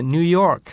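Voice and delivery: ニューヨーク in American English, "New York"; 英語風発音. Shown as a demonstration. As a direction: drop an English-accented ニューヨーク into Japanese. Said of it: "日本語で話している時にですね". (ニューヨークだけ英語の発音で)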